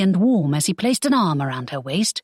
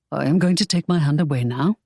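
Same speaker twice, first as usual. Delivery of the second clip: calm; 3 semitones lower than usual. Acted. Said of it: "he said calmly".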